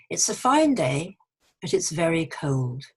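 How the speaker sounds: slow example sentence, "fine" lifted; careful teacher's read-aloud; model sentence reading. Shown as a demonstration. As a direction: read slowly and clearly for learners. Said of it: "I'm going to read a few sentences".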